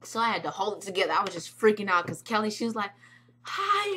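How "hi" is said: high, drawn-out hello; imitated star greeting. Singer greeting a freaking-out fan, imitated high hello.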